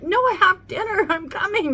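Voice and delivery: loud, high call to another room; re-enacted yell. Mom hollering to her husband about dinner, re-enacted yell. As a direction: holler it urgently across the house. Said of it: "'Cause I yelled at him".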